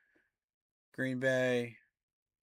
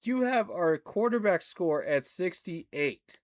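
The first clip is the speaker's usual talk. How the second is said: indignant; 4 semitones higher, 5 dB louder, slower than usual. Real, not acted. Arguing with ESPN rankings.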